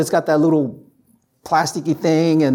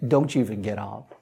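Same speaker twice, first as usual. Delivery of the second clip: lower, softer mock voice of a weary body; tired body's voice; 7 semitones lower, 6 dB quieter than usual. His tired body telling him to stay in the chair, low and soft. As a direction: coax him to stay put, low and hushed. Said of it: "your body's like".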